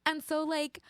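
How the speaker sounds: put-on lilting valley girl voice, leaping high. Astronaut packing chihuahuas for the moon, valley girl. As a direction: gush like a hammed-up valley girl. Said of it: "Valley girl".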